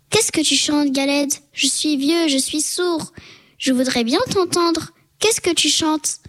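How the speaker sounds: lightly voiced crafty fox; sly fox. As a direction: coax the galette closer, playing half-deaf. Sly old fox pretends deafness.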